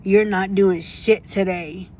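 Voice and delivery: slow, sneering impression of the boss; mocking the supervisor. Retelling the supervisor's jab, slow mocking voice. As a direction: drag it out like a snide supervisor. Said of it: "She's like".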